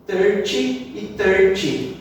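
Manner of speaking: thirteen and thirty both said alike as "thirty"; two identical slow "thirty"s; common learner error. Retold or imitated. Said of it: "O que que geralmente o pessoal fala".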